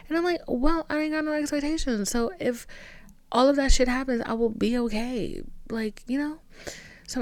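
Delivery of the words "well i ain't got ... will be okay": sassy reply. Retold or imitated. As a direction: brush it off with attitude. Sassy confident self-reply.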